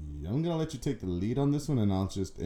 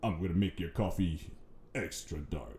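talking coffee voice; 5 semitones lower, 6 dB quieter than usual. Pretend. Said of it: "Why does it talk like that".

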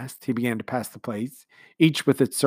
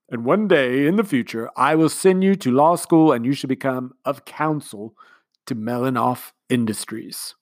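commander's speech; 3 semitones higher, 7 dB louder than usual. A narrator's reading. Commander speechifying to the household, sentimental. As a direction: speak like a sentimental host.

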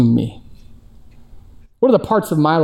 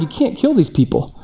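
Moses pleading; 6 semitones higher than usual. Retold or imitated. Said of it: "Moses ... told God".

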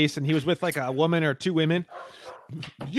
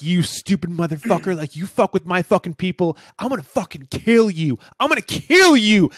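retold threat; 5 dB louder than usual. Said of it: "totally freaking out".

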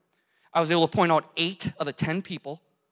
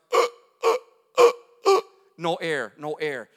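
gasping for air; 4 dB louder than usual. Retold or imitated. Man trapped under a truck gasping for breath. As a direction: fight for each breath, then whisper no air.

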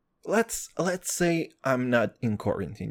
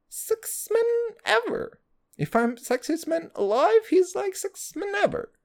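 much higher, dreamy swoon; swooning falsetto. Acted. Swooning over Brad Pitt, high starstruck falsetto. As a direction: gush like a starstruck fan.

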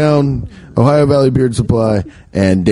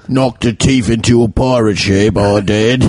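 silly British sailor boast; mock British accent; 2 semitones lower than usual. Host topping the tale, mock British accent. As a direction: brag it as a Brit. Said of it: "do a British accent".

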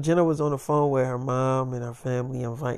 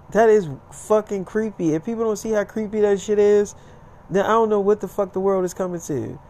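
acted indignant tirade, raised pitch; disgusted rant; 4 semitones higher than usual. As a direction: rant as the appalled girlfriend. Acts out her disgusted rant.

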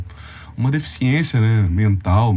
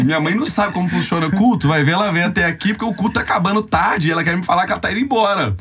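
flustered inner monologue; 5 semitones higher than usual. Retold or imitated. Acts out his panicked skeptical thoughts.

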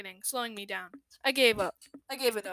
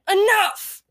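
loud, high hissed snap; loud high hiss of a word; 10 semitones higher, 10 dB louder than usual. Acted. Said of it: "I hissed".

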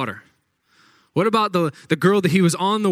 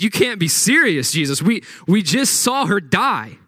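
raised, incredulous scoffing; mocking disbelief; 5 semitones higher than usual. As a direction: scoff at him as if he's foolish. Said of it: "they start laughing at him like".

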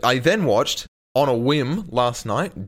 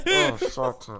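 laughing disbelief. Real, not acted.

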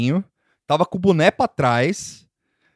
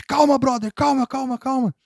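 high, quick-fire mock pleading to calm down; retold calming down; 9 semitones higher than usual. Bystanders restraining an angry concert-goer, retold urgent calming. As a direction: imitate trying to pacify someone.

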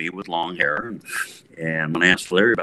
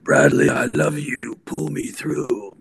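slow, pleading, a hint of a rock singer; lightly voiced rock-singer plea; emotional singer plea; 7 semitones higher, slower than usual. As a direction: beg him earnestly in the singer's voice. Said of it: "he says".

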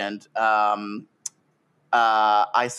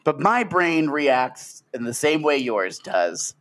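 slow, folksy country lawyer voice; honeyed southern lawyer drawl. Pretend. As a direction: address the jury like a simple countryman. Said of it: "Court is in fucking session".

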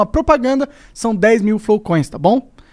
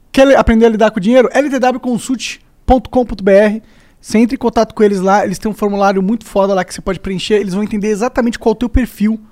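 stoner. Real, not acted. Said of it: "Por que que tu tá falando em câmera lenta". (voz de chapado, em câmera lenta)

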